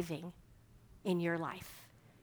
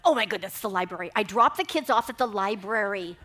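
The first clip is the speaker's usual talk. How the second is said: sudden realization; 5 dB louder than usual. Retold or imitated. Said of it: "I look and I went".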